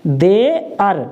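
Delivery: देयर pronounced again as there; model word. Shown as a demonstration. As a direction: repeat देयर so the class hears it. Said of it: "क्या पढ़ते हैं".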